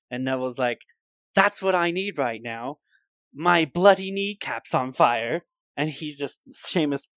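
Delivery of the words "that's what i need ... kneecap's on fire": pained Neville. Retold or imitated. S0 voicing Neville begging Seamus for help, higher pained plea. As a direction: plead through the ache. Neville voiced in retold scene.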